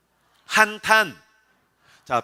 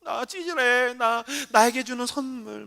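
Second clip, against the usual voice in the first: soft, pitched-up whiny moping; mock self-pity; 4 semitones higher, 6 dB quieter, slower than usual. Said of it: "한탄하고 앉았어".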